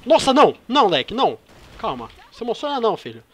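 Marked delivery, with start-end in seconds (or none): 0.1-1.4 panicking gamer. Real, not acted. Friend grabs her gun.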